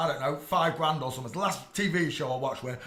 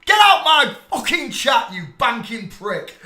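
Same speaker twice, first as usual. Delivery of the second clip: loud, higher yelling at a commenter; angry shout; 7 semitones higher, 10 dB louder than usual. Real, not acted. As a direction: kick the banker out of chat, yelling.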